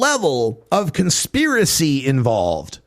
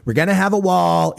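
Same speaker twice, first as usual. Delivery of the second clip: Trump impression; 4 semitones higher than usual. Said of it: "Trump's idea of".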